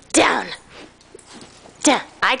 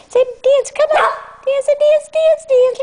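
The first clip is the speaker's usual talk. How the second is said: excited coaxing; 13 semitones higher than usual. Real, not acted. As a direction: cheer the dog on to dance. Urging dog to dance.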